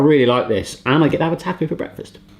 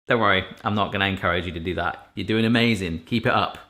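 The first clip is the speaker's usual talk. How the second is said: soft encouragement; 8 semitones lower, 7 dB quieter than usual. Acted. Soft encouragement to tired viewers.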